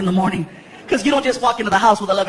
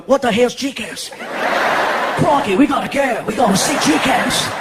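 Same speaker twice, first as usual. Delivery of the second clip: mock Australian; 2 semitones higher than usual. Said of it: "people in Australia going".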